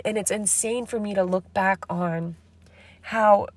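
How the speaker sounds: slightly raspy, sick voice; a little raspy from being sick. Real, not acted. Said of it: "so that's why I'm a little raspy".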